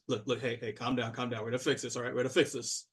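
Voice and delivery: quiet handler settling things down; calming suit. Acted. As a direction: soothe the panicking dwarf. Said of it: "he's like".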